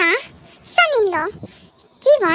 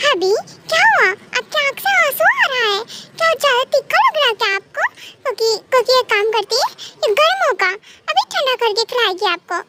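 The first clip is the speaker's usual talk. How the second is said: higher-pitched, lightly voiced worried wife; concerned childlike wife; 4 semitones higher than usual. Cookie sees her husband's tears, lightly voiced higher worry. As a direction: fuss over him like a little wife, pitched up.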